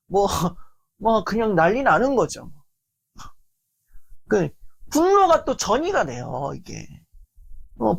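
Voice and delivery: ordinary delivery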